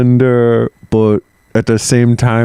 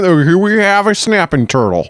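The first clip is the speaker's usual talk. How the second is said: much higher, goofy announcer lilt; mock priest voice; 10 semitones higher than usual. Priest presenting animals for sacrifice, high goofy voice. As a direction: play a cheery priest showing off the animal.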